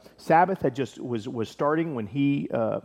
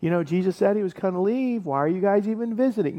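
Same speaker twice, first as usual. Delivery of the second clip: higher-pitched, mildly scolding question; lightly acted reproach, pitched up; mock rebuke; 6 semitones higher, faster than usual. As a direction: imitate a reproachful telling-off. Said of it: "he's not rebuking them".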